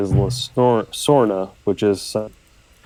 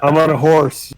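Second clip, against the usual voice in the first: put-on Old Spice guy; 4 semitones higher, 4 dB louder than usual. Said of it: "that guy from the Old Spice commercials".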